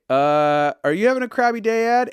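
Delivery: high, fast, mock-sweet teasing; teasing sweetly. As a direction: needle a grouch with fake sweetness. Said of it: "And I'd be like".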